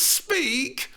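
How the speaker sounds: put-on high girlish "speak!" falling firmly; pestering. A narrator's reading. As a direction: drop "speak" as a firm order. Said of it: "pestering her".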